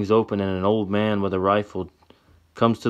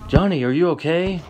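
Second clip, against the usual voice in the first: high, louder worried voice; Tessa crying out; 9 semitones higher, 4 dB louder than usual. Acted. Tessa checks on Johnny after the shot, high and frightened. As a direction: call out in fright. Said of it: "she cries out".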